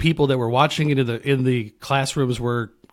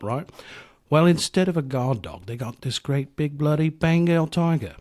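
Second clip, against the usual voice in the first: mock British sliding into Australian; drifting British accent. Podcaster spinning a rock star's backstage tale, wobbly British-Australian accent. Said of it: "I don't know why I sound Australian".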